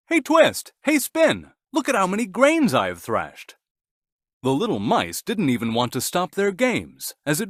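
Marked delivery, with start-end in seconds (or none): 0.1-3.6 loud, high proud call. A narrator's reading. Cockerel calling the mice to see his grain, loud proud call. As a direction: shout across the yard to the mice. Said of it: "he called the little mice".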